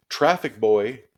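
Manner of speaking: shouted summons; calling out. A narrator's reading. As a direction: call out to the boy from afar. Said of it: "Miss Binny called out".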